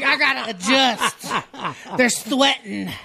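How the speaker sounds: slow, laughing through a mock woman's complaint; laughing mock quote. Teasing the women cohosts, slow and laughing. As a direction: imitate women while laughing. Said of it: "Y'all be like".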